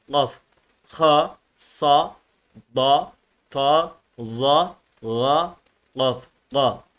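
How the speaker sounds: Arabic thick letters, each said separately with heavy back vowels; kalın okunuş. Shown as a demonstration. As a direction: sound out "Ha", "sad", "gayn" as heavy emphatic Arabic letters. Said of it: "kalınlık ve inceliklerine göre nasıl okunur". (kalın harfleri tek tek, tok sesle okuyarak)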